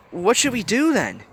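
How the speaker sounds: unsure what to do; anxious question. A narrator's reading. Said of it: "Riley questioned".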